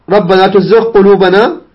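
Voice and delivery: gh of تزغ kept distinct before قلوبنا; clear ghayn. Shown as a demonstration. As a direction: recite تزغ with an audible gh, then q. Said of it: "إظهار الغين مع القاف".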